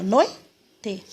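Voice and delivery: "noite" as noi, pause, te; two separated syllables in "noite"; vowels joined. Shown as a demonstration. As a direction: glide O into I in "noite", then te. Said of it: "o O e o I bem juntinho".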